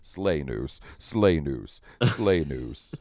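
lightly voiced repeating announcement; deliberate, spaced-out kill announcements; imitated game kill feed. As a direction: read kills like a game notification, drawn out. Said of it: "and it just says".

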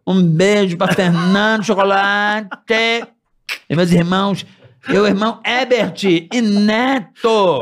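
slow, drawn-out talk show host voice; lightly imitating a veteran TV host; Jô Soares voice. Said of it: "com a voz do Jô".

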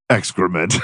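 smug, dead serious verdict; deadpan serious. Pretend. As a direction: say it straight, no smile. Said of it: "You say it like you're very serious".

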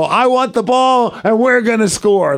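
high, slow, stretched-out proclamation; cocky declaration. Retold or imitated. Wrestler winning the coin toss, high slow boast. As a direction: announce it high and drawn out.

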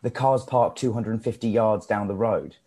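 film line in a South African accent; recited South African accent line. Shown as a demonstration. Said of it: "one of the first lines I have in the film".

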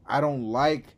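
rising exasperated rant. Real, not acted. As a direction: push it out frustrated. Frustrated rant.

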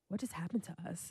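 soft, stunned imitation of a companion; dazed. Companion after the concert, imitated hushed and dazed. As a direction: ask it under the breath, dazed.

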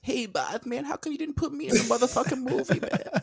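Mike Tyson voice. Acted. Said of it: "Mike Tyson wanted to be a singer".

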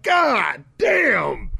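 high, drawn-out imitation yell; mock rapper shout. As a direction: holler it like a self-delighted rapper. Repeats rapper's exclamation in mockery.

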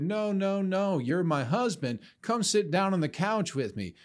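a hint of a confused old lady insisting; insistent grandma. Grandma mistaking her grandson for her husband, lightly voiced. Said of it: "And she said".

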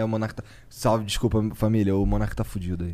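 hoarse with sore throat. Real, not acted. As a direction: talk through a sore throat. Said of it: "tô com dor de garganta".

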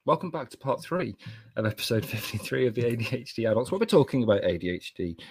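podcast host read; steady, businesslike welcome; professional intro. Shown as a demonstration. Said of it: "be professional for once".

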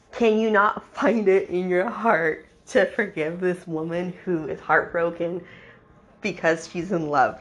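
lightly hammed-up, slow lovelorn pleading; a touch of melodramatic begging; mock earnest plea. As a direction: plead slowly, mocking his earnestness. Mocking Gavin's plea for Alice.

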